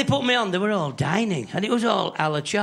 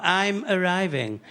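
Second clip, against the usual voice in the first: slow, drawn-out posh call; a hint of upper-class woman, slowly; mock posh woman; 2 semitones higher, slower than usual. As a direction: lightly imitate a posh woman announcing herself. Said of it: "the posh woman shouts out".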